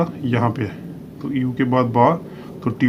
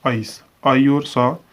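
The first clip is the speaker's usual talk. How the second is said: slow, spelled-out आइस, आई और सा; teacher sounding out each part of आइस; sounding out slowly; much slower than usual. Shown as a demonstration. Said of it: "तो ये हमारा आ जाएगा".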